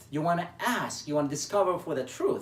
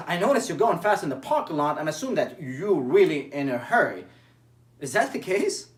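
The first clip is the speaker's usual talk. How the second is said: louder, firm and pressing; harsh interrogating tone; 4 dB louder than usual. Shown as a demonstration. Coach shows a coworker the wrong, pressing tone. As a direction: push them for an answer.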